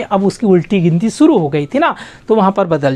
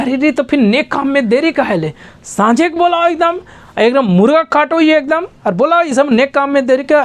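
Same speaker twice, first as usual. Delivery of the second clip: excited; 5 semitones higher than usual. Retold or imitated. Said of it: "तब तो वो खुश हो जाता है पूरा".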